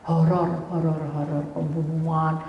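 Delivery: ordinary talk, nothing marked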